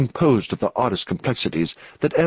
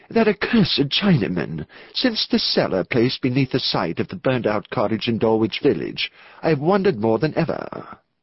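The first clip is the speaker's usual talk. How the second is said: ordinary delivery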